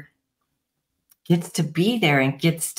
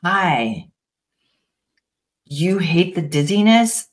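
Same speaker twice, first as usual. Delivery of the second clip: gentle reassurance. Shown as a demonstration. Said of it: "turning to it and saying".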